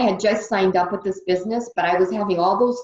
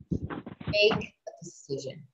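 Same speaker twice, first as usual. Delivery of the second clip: breathy near-whisper, slow, much softer; hushed emphasis; 10 dB quieter, slower than usual. Real, not acted. Coach hushing the key phrase to the team. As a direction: lean in and drop it to a hush. Stressing her key theme.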